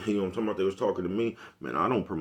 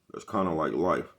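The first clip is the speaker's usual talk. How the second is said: "That's kinda like life" said slowly, each word weighed; slow it down and let "kinda like life" land; a slow, deliberate repeat of "kinda like life"; slow emphatic repeat; 3 semitones lower than usual. Shown as a demonstration. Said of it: "repeated slower".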